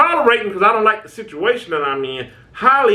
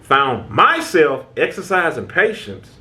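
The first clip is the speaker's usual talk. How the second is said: drawn out slowly, word by word; slow, deliberate repeat; slower than usual. Shown as a demonstration. Repeating it slowly so the viewer hears it. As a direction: let each word land slowly. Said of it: "Hear what I'm saying now".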